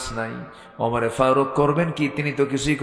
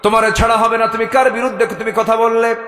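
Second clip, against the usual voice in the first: louder, higher indignant scolding; preacher voicing the indignant woman with a raised scold; angry woman; 8 semitones higher, 4 dB louder than usual. A narrator's reading. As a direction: scold him hotly for slighting Omar. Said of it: "খেপে গিয়ে বলছে".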